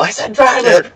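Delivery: mad yell. Retold or imitated. Spotter to the driver he is guiding, mad mock yell. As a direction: imitate yelling at the driver in frustration. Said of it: "mad at him and starting to yell".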